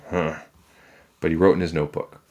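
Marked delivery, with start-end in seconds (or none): 0.1-0.4 grudging little huh; short grunt. A narrator's reading. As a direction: grunt it briefly. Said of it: "Jack grunted".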